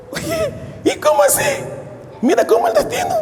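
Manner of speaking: high, surprised schoolmate voice; surprised old friend. Retold or imitated. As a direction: squeal it like a woman amazed to see him. Old schoolmate recognizes him. (una compañera de escuela lo reconoce, voz aguda y sorprendida)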